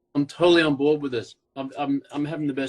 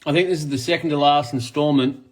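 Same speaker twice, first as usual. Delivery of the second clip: normal talking voice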